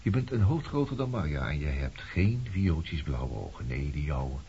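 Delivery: low taunting murmur. Acted. Cold taunting appraisal of her.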